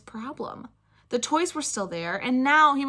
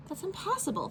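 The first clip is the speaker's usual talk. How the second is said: thought; 8 semitones higher, 9 dB quieter than usual. Acted. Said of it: "thought Spencer".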